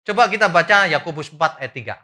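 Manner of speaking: loud, ringing call to open the Bible; announcing the verse. Real, not acted. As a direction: call the verse out to the whole hall.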